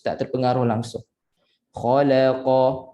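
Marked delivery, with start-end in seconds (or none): 1.7-2.9 slow "Khalaqa", light la between two heavy letters; thin la. Shown as a demonstration. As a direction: say "Khalaqa" slowly, keeping la thin. ("Khalaqa" dengan la nipis)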